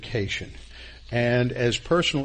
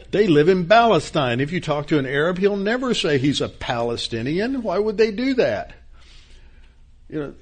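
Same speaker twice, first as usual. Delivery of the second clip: heated outburst; 5 semitones higher, 4 dB louder than usual. Real, not acted. Heated political aside in class.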